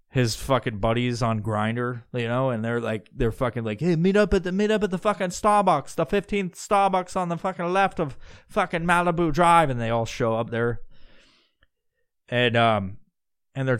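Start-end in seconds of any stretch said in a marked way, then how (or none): 3.8-9.7 higher-pitched, lightly mocking invitation; put-on buddy voice. Jeffrey's buddies text him to meet at Starbucks, mocking imitation. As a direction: imitate a pal rallying the group.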